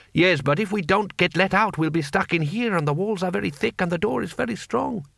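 high, reasoning guard's voice; worried prisoner guard. Acted. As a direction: reason anxiously, pitched high. Guards talking in cell.

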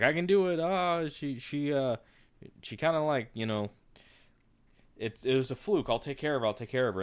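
high, eager retold Jack; quoting a confident Jack; Jack's voice. Jack's quote in retelling.

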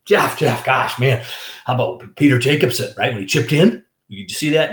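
eager golf fan firing off questions; excited boss. Retold or imitated. Boss calls him in about the Ryder Cup, excited. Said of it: "He's all excited Monday".

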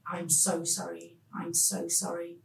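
a gentle echo of the nurse's soft sorry; soft, retold. Nurse breaking bad news to the children, softly retold. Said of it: "so softly".

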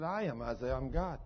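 low, soft divine answer; God's voice. Retold or imitated. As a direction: answer softly and low as the Lord. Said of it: "the Lord speaks to Isaiah in an audible voice".

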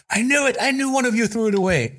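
very high accusing gloat; mock vindication. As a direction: imitate a crazed boss proven right. Chef vindicated, accusing the staff.

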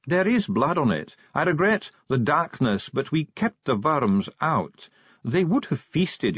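a stiff dwarf bureaucrat, precise; dwarf official. Acted. Ardent's dwarf voice.

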